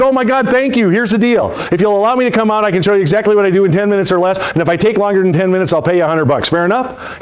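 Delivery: high, eager, grateful pitch; excited pitch. Retold or imitated. Salesman pitching the tired prospect, high and eager. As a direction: jump at the chance with eager excitement. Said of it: "I said".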